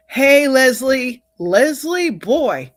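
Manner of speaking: loud, high, delighted call to Leslie; excited greeting. Real, not acted. Host spots Leslie joining the stream, loud happy hello. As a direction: call out to her happily by name.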